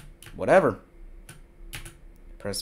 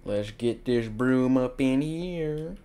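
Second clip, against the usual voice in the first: odd put-on voice; 3 dB quieter, slower than usual. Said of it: "I don't know why I'm saying it like this".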